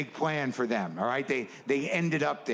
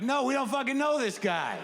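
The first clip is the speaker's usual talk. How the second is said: annoyed dismissal; 10 semitones higher than usual. Retold or imitated. Friends reject celebrity bluntly.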